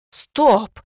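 startled shout. Acted. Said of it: "подпрыгнула Варвара Михайловна".

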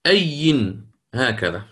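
أي said slowly with its nunation; original form. Shown as a demonstration. Teacher reconstructing the root word, slow and careful. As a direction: draw out أي with the nun heard. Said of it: "أن أصل الكلمة".

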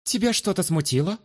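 sharp, high, demanding; pushy tone. Acted. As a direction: press him hard. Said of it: "сменила тон ... на куда более напористый".

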